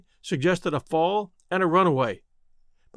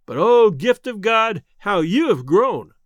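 fond wonder; 3 semitones higher, 6 dB louder, slower than usual. A narrator's reading. Brother sees grown sister.

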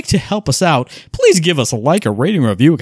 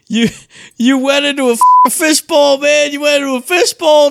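amused exclaim; 10 semitones higher, 4 dB louder than usual. Real, not acted. Laughing at friend's distorted audio.

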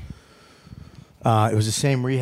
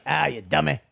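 Red Foxx impression. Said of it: "you're doing Red Fox".

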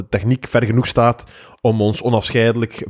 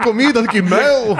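playful lover voice; 8 semitones higher than usual. Retold or imitated. Voicing the kissing couple.

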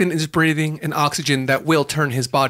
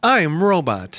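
flat robot voice. Acted. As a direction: speak like a machine. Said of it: "Can Robot Carl help".

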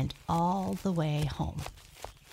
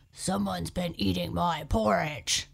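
Daddy Bear growl; 4 dB louder than usual. Acted. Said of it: "growled Daddy Bear".

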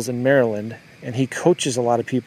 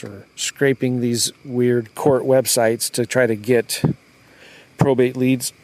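hiccuping mid-sentence; with hiccups; slower than usual. Real, not acted. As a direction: talk through the hiccups. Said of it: "excuse me, I got the hiccups".

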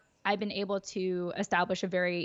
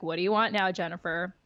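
mock exasperation. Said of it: "she gives me this funny face".

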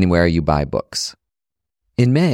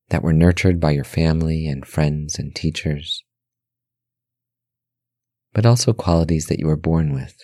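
guided meditation; 4 semitones lower than usual. Acted.

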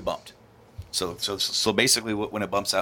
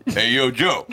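put-on movie tough-guy drawl for a woman's line; mock macho impression, played for laughs; Sly; slower than usual. Teller voices her greeting to Joe on request, hammed-up Sly impression. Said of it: "Do it in the Sly voice".

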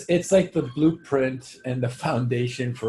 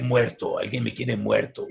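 lower-pitched Spanish movie line; movie character quote; 5 semitones lower than usual. Acted. Quoting cartel character who is marked for death, grave.

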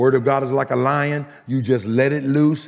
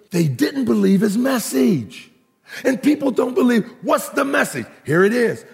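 raised, declamatory scripture proclamation; preaching; 6 semitones higher than usual. Acted. Preacher proclaiming Jesus' words to the congregation, preaching. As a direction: ring it out to the whole church.

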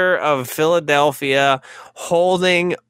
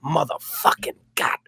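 put-on Boston accent; 4 semitones higher, 3 dB quieter than usual. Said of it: "frustrated in the Boston accent".

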